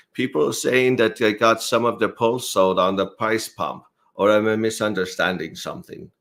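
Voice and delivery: put-on voice, pitched somewhat up; Finbear. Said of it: "read this in my best Finbear impersonation".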